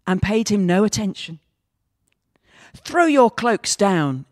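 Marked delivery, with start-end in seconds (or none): 2.7-4.2 slow, louder cross command; a proud donkey snapping orders slowly; indignant donkey demanding cloaks, slow and loud. Acted. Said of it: "he said crossly".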